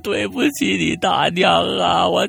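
hammed-up funeral wail, high, loud, very drawn out; keen each phrase slowly in a high sing-song sob; howling in grief. Dead uncle laments to family through mother, howling loudly. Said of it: "这会儿已经嚎起来了".

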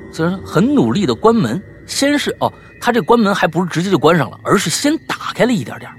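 ordinary talk, nothing marked

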